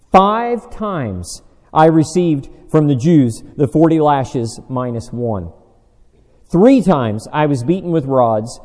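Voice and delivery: slow, deliberate sermon reading, leaning on key words; emphatic scripture reading. Acted. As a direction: read Paul's list with measured, mounting weight. Reads scripture aloud to congregation.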